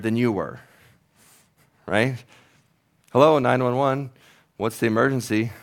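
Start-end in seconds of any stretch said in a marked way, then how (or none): 3.1-5.5 calm operator. Acted. Acted 911 call, operator.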